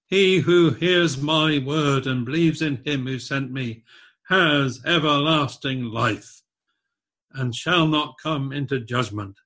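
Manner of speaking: slow, weighty reading of verse; solemn scripture reading. Acted. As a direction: read it slowly and gravely.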